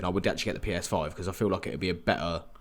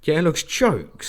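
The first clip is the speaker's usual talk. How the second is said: excited; 9 semitones higher, 7 dB louder, much slower than usual. Real, not acted. Excited agreement about the game.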